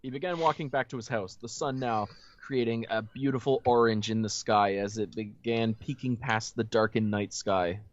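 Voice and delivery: measured read-aloud storytelling voice; story narration. A narrator's reading. Host reading the story to friends, narration.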